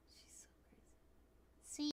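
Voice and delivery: slow whispered aside. Real, not acted. Owner whispers about her cat, slow and hushed. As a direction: breathe it out, amused.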